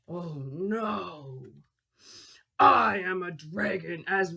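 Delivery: slow, low menacing dragon; lightly voiced dragon. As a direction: growl it out like a mean dragon.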